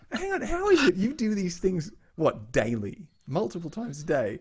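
high, loud, disbelieving challenge; retold incredulity. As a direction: question the expert in mock disbelief. Acting out parents challenging doctor's mistake.

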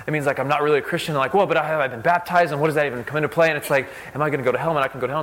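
anxious worrying. Retold or imitated. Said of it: "get way too intense or emotional or worked up".

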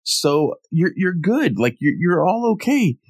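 put-on high, carefree kid voice; cheerfully reassure, clueless; innocent Goku voice. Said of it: "he's like".

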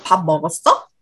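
"밥 먹었어?" in even, standard Seoul Korean. Shown as a demonstration. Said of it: "in Seoul".

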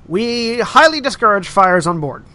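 polite staff announcement; announcer voice. Acted. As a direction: read it like a cabin announcement.

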